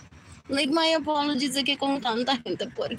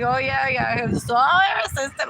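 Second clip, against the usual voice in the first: mocking imitation; 5 dB louder than usual. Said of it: "when he mocked her".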